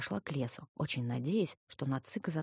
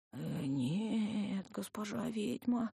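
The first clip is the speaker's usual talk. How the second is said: put-on slow, higher-pitched scared old man; frightened, barely squeezed out; 5 semitones higher, 4 dB quieter, much slower than usual. A narrator's reading. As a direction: force the words out in fear, with hesitation. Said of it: "еле выдавил пастух, лязгая зубами". (еле выдавливая слова от страха)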